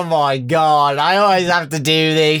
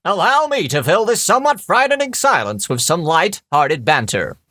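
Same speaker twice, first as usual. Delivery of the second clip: over-articulated. Acted. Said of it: "the over-articulation, I like that".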